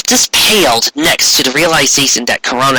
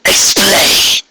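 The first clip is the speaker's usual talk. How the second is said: high, slow, imperious royal decree; regal demon queen; 7 semitones higher than usual. Acted. Returned queen demanding the village present itself, imperious. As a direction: command the cowering ponies like a returned tyrant. Corona's clipped command.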